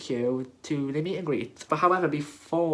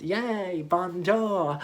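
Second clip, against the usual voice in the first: higher-pitched, cheering bonjour; excited greeting; 4 semitones higher, much slower than usual. Retold or imitated. Fan walking over to meet the queen, excited greeting. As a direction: raise the pitch for a fan's happy hello.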